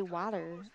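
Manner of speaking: "water" run together as "wadder"; slurred T. Shown as a demonstration. Vlogger contrasting her way with New Jersey, slurred T. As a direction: say "water" with no crisp T. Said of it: "just slur it all together".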